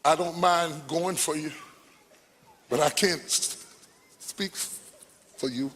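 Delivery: a hint of Moses, softly pleading, the voice trailing away; quiet, hesitant plea, slowing to a near halt at the end. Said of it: "because Moses said".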